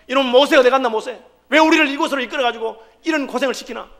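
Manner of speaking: mock angry grumbling at the leader; lightly acted bitter reproach; resentful complaint. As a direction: gripe at Moses like an angry crowd. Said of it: "지도자를 원망하고".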